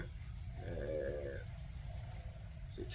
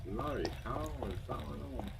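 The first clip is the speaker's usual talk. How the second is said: muttered curse; 10 dB quieter than usual. Real, not acted. Muttered frustration while searching.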